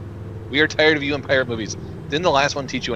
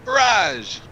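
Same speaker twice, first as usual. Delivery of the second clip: shouted Barrage; 9 semitones higher than usual. Acted. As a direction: call Barrage much higher. Group chanting card name again.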